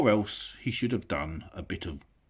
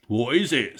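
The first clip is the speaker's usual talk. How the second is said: troll asking; 6 semitones higher, 7 dB louder than usual. Acted.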